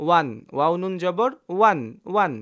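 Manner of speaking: ওয়ান said clearly with a rising end; clear recitation. Shown as a demonstration. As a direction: spell out ওয়ান, ওয়াও নুন জবর, then ওয়ান twice. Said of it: "স্পষ্ট পড়লাম".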